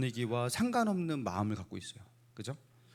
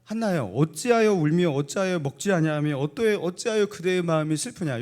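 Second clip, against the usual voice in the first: empathetic; 3 semitones higher, 3 dB louder than usual. Acted. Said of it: "굉장히 공감의 말이잖아요".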